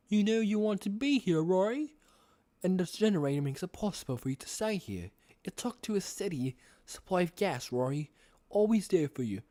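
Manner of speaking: put-on British accent; lightly acted British character; William Afton. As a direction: coax in a British villain voice. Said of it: "do my best William Afton impression".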